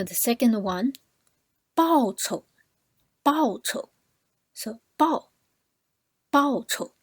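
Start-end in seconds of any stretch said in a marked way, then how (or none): 1.8-6.9 报酬 said higher with 酬 very light and quick; teacher models 报酬, keeping 酬 quick; light neutral 酬. Shown as a demonstration. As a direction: lean on 报 in 报酬, then drop 酬 fast. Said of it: "So the 酬 is very light, quick".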